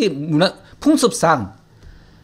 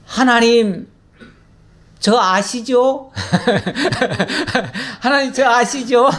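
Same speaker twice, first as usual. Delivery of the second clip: higher-pitched, chuckling retold prayer; imitated simple prayer; 4 semitones higher than usual. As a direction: imitate an artless plea to God, amused. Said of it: "어떻게 기도하시냐면". (웃음 섞어 흉내 낸 소박한 기도)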